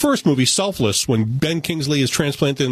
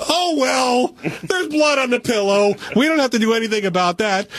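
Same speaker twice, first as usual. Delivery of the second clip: mock nonchalance; 9 semitones higher than usual. Mocking characters' indifference.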